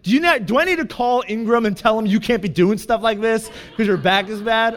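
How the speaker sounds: exasperated mock lecture; mock scolding parent. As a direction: tell him off like a child. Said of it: "pretends that I'm seven".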